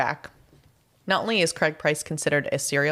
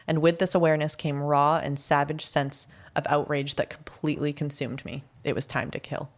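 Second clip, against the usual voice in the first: dramatic reading. Shown as a demonstration. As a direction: read it like a dark confession.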